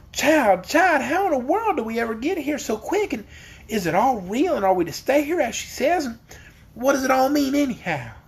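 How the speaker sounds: bewildered eager questions. A narrator's reading. Bewildered aunt questioning Dorothy.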